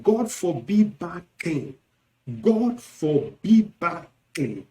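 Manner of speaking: "God forbid bad thing" in slow, separated beats; emphatic rejection. Shown as a demonstration. Teacher demonstrating another rejection, emphatic. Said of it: "emphatic rejection".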